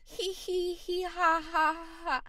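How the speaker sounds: slow, high, spelled-out fake giggle; forced laugh. Helper asks crying caller to laugh, forced laugh. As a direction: laugh on command, one syllable at a time. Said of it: "Now, please laugh".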